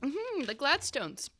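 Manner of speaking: put-on high, halting, timid girl voice; mousy girl. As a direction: speak up shyly in a high, hesitant voice. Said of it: "the mousy girl will kinda, like, speak up".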